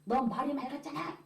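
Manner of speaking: mock-angry husband's retort; cursing husband. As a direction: tell off the wife, retold. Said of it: "여기다 대고 쌍욕하면서".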